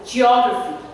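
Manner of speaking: "geography" stressed on the syllable just before "graphy". Shown as a demonstration. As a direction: punch the "o" in "geography". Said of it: "I am here stressing on the syllable just before graphy".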